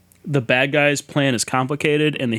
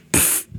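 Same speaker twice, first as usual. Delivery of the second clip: dismissive pfft; 4 dB quieter than usual. Retold or imitated. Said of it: "just goes".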